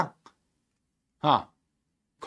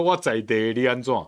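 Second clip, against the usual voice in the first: local thug tone. Retold or imitated. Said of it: "才会用这种口吻讲说".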